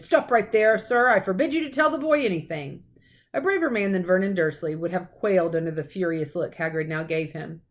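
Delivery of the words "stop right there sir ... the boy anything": loud, higher, forbidding; stern command. A narrator's reading. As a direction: forbid it firmly. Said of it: "he commanded".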